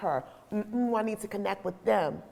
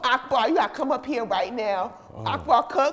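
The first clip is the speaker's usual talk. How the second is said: ordinary talk, nothing marked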